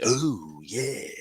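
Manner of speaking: lightly hammed-up comic actor impression; Jack Black. Friend mocking the actor's Minecraft performance, over-the-top imitation. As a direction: draw it out in a mildly over-the-top way. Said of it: "he really kinda went over the top".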